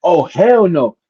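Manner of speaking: a friend anxiously checking; worried friend. Retold or imitated. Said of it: "my best friend looks out the curtain".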